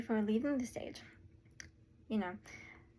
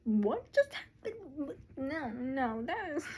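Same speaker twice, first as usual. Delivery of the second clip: puzzled, but not actually whispered; confused murmuring; 3 semitones higher, slower than usual. Acted. Confused scholars asking each other what happened, puzzled. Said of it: "looked around confused and whispering".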